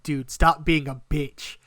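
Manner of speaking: loud, firm self pep talk; hyping himself up. Retold or imitated. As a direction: push yourself on, as retold. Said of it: "trying to hype myself up".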